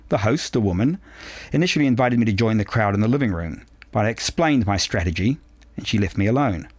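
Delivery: measured, precise audiobook reading; composed novel narration with careful phrasing; story narration. A narrator's reading. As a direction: read it aloud as a first-person story. Reads a novel aloud.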